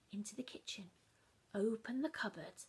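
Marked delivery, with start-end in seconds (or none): 0.1-0.9 soft secret whisper. A narrator's reading. Child creeping into the dark kitchen, whispering. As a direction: sneak the words in.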